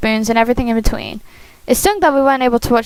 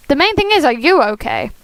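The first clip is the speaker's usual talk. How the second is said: concerned character voice; 3 semitones higher than usual. Acted. Voicing Shane's worried question.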